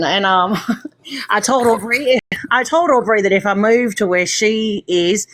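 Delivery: put-on Australian accent in easy chat. Shown as a demonstration. After ringing the party bell, Australian accent. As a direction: switch into Australian and chatter on. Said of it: "now I'm gonna be Australian".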